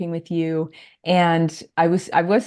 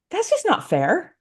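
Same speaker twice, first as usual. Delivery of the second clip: higher-pitched voicing of a younger self's protest; teenage indignation; 4 semitones higher than usual. Speaker recalls her teenage reaction to an unfair story, voiced high. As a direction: lightly act out a teenager's objection, pitched up. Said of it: "even as a teenager thinking".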